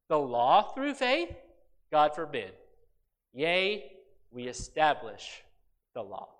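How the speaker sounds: slow, deliberate reading with spaced phrases; measured pulpit Bible reading; scripture reading. Acted. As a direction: read the passage out weightily, phrase by phrase. Reads scripture aloud.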